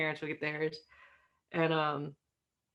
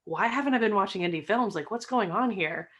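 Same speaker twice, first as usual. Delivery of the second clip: higher-pitched, amazed outburst; blown away; 4 semitones higher, 3 dB louder than usual. Retold or imitated. Guest recalling the first indie film they watched, blown away. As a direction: retell being astonished by a discovery. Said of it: "blown away".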